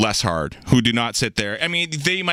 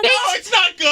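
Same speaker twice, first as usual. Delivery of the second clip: high mock-British squeal; squeaky pretend British voice; mimicked British accent; 4 dB louder than usual. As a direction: parody a bad British falsetto.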